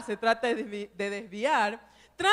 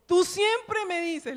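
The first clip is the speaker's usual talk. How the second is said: put-on annoyed child; 5 semitones higher, slower than usual. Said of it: "se enojó y le dijo".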